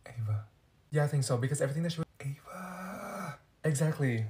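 hushed secret whisper. Acted. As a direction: whisper so nobody overhears. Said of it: "Why are you whispering?".

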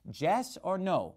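high-pitched South American "Jess" for yes; South American accent, Y hardened to J; imitating South American accent. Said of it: "she pronounces it Jess".

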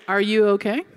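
lightly voiced, level question; mild, unruffled concern; concerned guide. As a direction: check in calmly, imitating the guide. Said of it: "She said".

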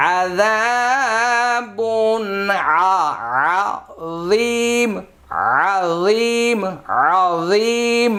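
আযীম with pure "a" and long held "zee"; correct pronunciation. Shown as a demonstration. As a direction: slowly chant আযীম, stretching the last vowel. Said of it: "আউজিম যেন না হয়". (আযীম, খাঁটি "আ" আর লম্বা টানা "যী")

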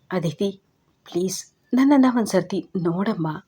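ದುಃಖದ ಮೆಲು ಬೇಡಿಕೆ; sorrowful plea. Acted. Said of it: "ಧ್ವನಿಯು ದುಃಖದಿಂದ ಕೂಡಿತ್ತು".

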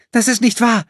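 high, loud indignant protest. A narrator's reading. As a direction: protest it, offended and denying. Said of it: "protestierte Corinna".

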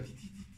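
barely audible weak "ti, ti"; faint dying sounds. Retold or imitated. Son imitating his dying father's last faint sounds. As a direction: breathe out tiny faint syllables like a dying man. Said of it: "decía".

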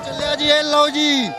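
excited call. Real, not acted. Cheering as barricades are lifted.

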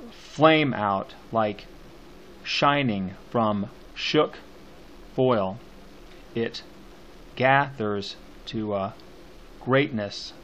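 very slow, word-by-word verse with heavy beats; poem scansion reading. Shown as a demonstration. Teacher scanning the poem for students, slow measured recitation. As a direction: recite it slowly, pausing after each stressed word.

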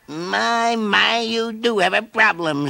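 high, slow gentle voice; kindly caterpillar. A narrator's reading. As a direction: soothe the young bear. Wise caterpillar consoles bear.

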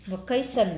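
"vacation" with weight on "ca"; second-syllable stress. Shown as a demonstration. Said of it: "là nhấn âm hai".

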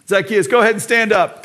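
high mocking call; teasing crowd. Crowd teasing short Zacchaeus, high mocking call. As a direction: tease the short man to stand.

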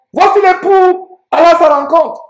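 high, stretched herald's call; crying out. Acted. Preacher voices the midnight cry.

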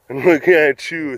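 "Chew" said with a ch sound in place of "you"; T-Y run together as "ch". Shown as a demonstration. Recalling that chew thing, "Chew" with a ch sound. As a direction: let the t slide into "Chew". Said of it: "that chew thing".

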